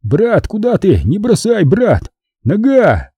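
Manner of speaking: high, hammed-up desperate plea; theatrical wail for help; anguished calling. A narrator's reading. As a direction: call after your brother as if abandoned. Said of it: "принялся с надрывом звать".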